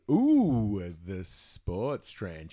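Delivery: slow, low, drawn-out tease; a hint of a sultry radio sweeper; saucy sweeper voice. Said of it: "where it goes".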